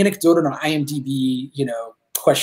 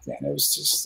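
choked up; 13 semitones lower, 10 dB quieter than usual. Real, not acted. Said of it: "I don't wanna get too emotional".

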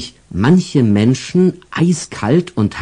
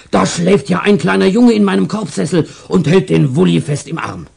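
surprised stall owner; 9 semitones higher than usual. Acted. Stall owner discovers the boy.

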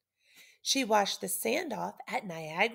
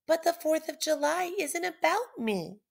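passionate outcry; 7 semitones higher than usual. Acted. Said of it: "Liberty cried".

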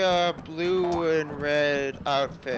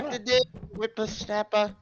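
put-on hillbilly accent; 2 semitones higher than usual. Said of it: "my fake hillbilly accent".

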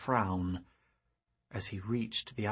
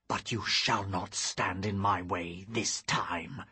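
cold fury; 2 semitones lower than usual. Acted. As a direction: snarl it like an angry beast. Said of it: "His voice snarled like an angry beast".

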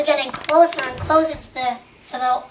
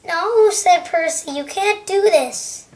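higher-pitched protest; pleading protest; 3 semitones higher, slower than usual. Acted. Percy objecting to Thomas dooming him, pleading protest. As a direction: plead against it, voice lifted.

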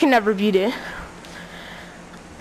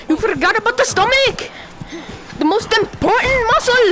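yelled higher, taunting; mock fighter yelling a taunt, higher; 5 semitones higher than usual. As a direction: taunt him, voice climbing high.

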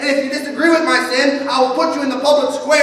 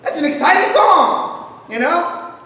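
higher, exclaiming plea to the grumpy churchgoers; mock exasperated shout; exasperated excitement; 4 semitones higher than usual. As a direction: cheer up a sour congregation. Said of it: "And I'm like".

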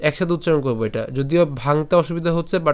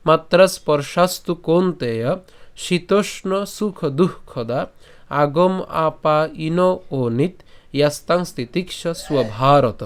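slow, measured shloka with pauses between parts; verse recitation; slower than usual. Shown as a demonstration. Teacher reciting the shloka for learners, measured recitation. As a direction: recite the Sanskrit slowly, drawing out long syllables. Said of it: "তাহলে যদি আমি আবার বলি".

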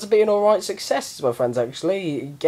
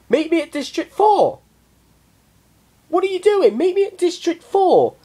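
exasperated shouting; 11 semitones higher than usual. Retold or imitated. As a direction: yell at friends who won't listen. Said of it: "just going".

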